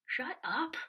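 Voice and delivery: snapping back in her own head; inner snap. Retold or imitated. Silently telling the consoling nurse to shut up, sharp and loud. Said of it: "I didn't say that to her, but in my head".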